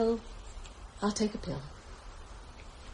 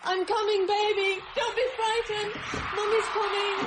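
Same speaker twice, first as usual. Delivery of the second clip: anxious reassurance; 5 semitones higher than usual. Acted. Mother rushing to her baby.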